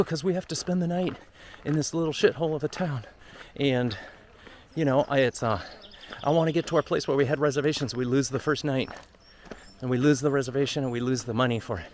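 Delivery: mildly heated, pressing retelling of the rant; half-mock exasperated retort to his friend; retold angry complaint. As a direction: replay your frustrated argument, a touch worked up. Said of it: "And I got so mad".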